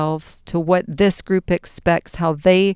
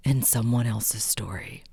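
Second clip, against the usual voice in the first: whispered reveal; 7 semitones lower, 9 dB quieter than usual. Acted. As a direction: drop to a whisper.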